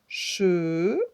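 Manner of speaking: "Cheval" loud, held "che", long gap, then "val"; two separate syllables. Shown as a demonstration. Teacher letting pupils hear two syllables, loud and separated. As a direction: split "Cheval" in two with a pause. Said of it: "On entend deux syllabes".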